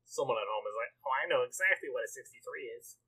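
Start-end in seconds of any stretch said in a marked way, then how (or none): 1.1-3.0 lightly voiced know-it-all nerd; a hint of a smug nerd. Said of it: "that is my go-to nerd voice".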